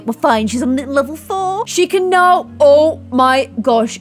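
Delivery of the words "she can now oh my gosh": high, loud burst of excitement; thrilled amazement. Real, not acted. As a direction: exclaim it loudly, stretching the amazement. Thrilled by rug unlock.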